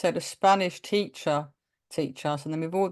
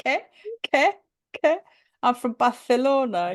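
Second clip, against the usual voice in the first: lightly voiced confused waiter; a hint of the bewildered Manuel; mock-baffled waiter echoing the question; 7 semitones higher, 4 dB louder than usual. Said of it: "Manuel from Fawlty Towers".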